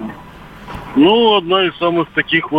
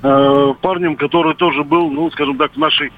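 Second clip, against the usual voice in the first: over a landline phone. Real, not acted. Caller on radio phone line.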